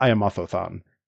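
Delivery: put-on heavy lisp. Retelling a man walking up to someone to introduce himself, imitating a heavy lisp. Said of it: "an incredible lisp".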